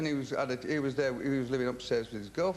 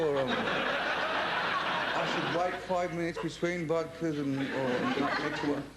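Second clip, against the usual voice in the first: laughing; much slower than usual. Real, not acted. Laughing at own retold thinking.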